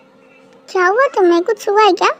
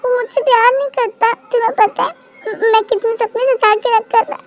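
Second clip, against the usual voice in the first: acted crying. Girl tells the man who loves her about her heartbreak, teary. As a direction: confess heartbreak through light tears. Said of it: "तुम रो रही हो क्या".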